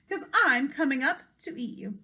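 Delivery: loud menacing troll; troll threat. Acted. Troll threatens to eat the goat, loud. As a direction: threaten loudly.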